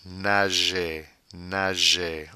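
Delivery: "nager" ending in an ay sound; slow French "nager" with no R. Shown as a demonstration. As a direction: say "nager" as nah-zhay. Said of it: "Notice the E R sound is".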